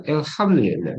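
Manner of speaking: "Alhamdulillah" begun with "el"; colloquial kasrah opening. Shown as a demonstration. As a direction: say "Alhamdulillah" as "el-hamdulillah". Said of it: "Bacanya gitu, kasrah ya".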